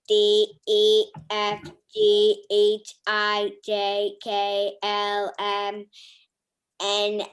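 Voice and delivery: stiff robotic letter names. Pretend. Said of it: "I want the robot voice".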